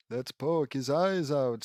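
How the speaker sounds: put-on slow, lightly Transylvanian accent; a measured Transylvanian lilt. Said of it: "in a Transylvanian accent".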